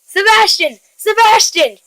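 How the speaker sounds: high-pitched call for the cat; mild, high mock yell; yelling mom. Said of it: "yelled Kyle's mom".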